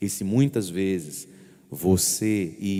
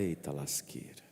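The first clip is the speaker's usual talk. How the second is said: rueful exclamation; 6 semitones lower, 12 dB quieter than usual. Shown as a demonstration. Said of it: "Bate na tua perna e fala".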